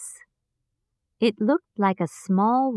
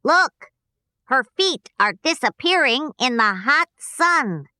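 high, louder excited call; shout; 4 semitones higher, 4 dB louder than usual. Acted. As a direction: call out in surprise. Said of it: "gave a shout".

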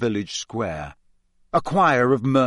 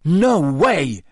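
furious; 2 semitones higher, 4 dB louder than usual. Acted. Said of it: "said Harry furiously".

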